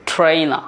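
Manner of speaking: ট্রেনার with the final r silent; British pronunciation. Shown as a demonstration. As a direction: say ট্রেনার as "tray-na". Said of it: "আরটা silent হবে".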